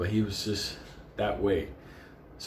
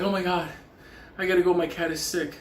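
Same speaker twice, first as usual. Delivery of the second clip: retold neighbor; 7 semitones higher than usual. Retold neighbor woman, higher pitch.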